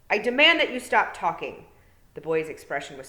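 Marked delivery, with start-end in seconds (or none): 0.1-1.7 louder, indignant scolding; angry young lord. A narrator's reading. Boy to girl who named him, loud indignant rebuke. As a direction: put her in her place, loudly. Boy near tears demands silence.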